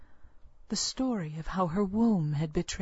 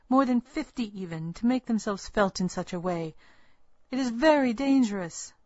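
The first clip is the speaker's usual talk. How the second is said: rising louder warning, stern; angry; 3 semitones higher, 3 dB louder than usual. Acted. Midwife warns the pregnant girl, angry. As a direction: push the danger home firmly. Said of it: "she said angrily".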